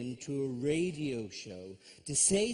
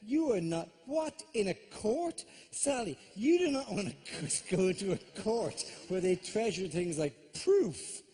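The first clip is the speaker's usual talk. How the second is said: incredulous rant; 5 semitones higher than usual. Real, not acted. Ranting at Sally, high-pitched.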